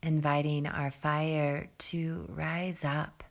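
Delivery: calm, soft meditation voice with long pauses; guided meditation. Real, not acted. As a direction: settle them gently into the breath, low and unhurried. Leads a seated breathing meditation.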